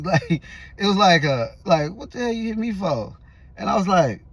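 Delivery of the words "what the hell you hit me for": higher, indignant retort from the slapped man; mock indignant what-the-hell; mock outraged demand. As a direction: act out his shocked protest. Retelling the slapper's reaction.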